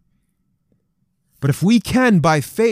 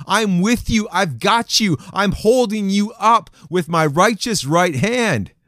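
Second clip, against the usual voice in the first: fervent promise; 3 semitones higher than usual. Acted. Preacher voicing God to discouraged men, fervent and sure. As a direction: lift each word like a held hand.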